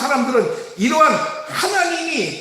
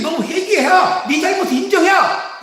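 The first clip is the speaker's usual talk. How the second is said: urging repentance; 4 semitones higher than usual. Acted. God voiced urging repentance.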